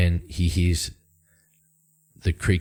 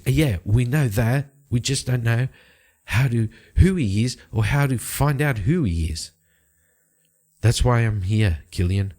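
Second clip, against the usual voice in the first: higher-pitched, mildly insistent appeal; lightly voiced informant; 5 semitones higher than usual. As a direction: lightly play a woman admitting she needs help, higher voice. Game master voices Bryn appealing to Killian.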